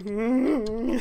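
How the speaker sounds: anxious little "mm" sound; acted fretful hum; nervous hum. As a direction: hum uneasily to yourself. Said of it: "looking so nervous".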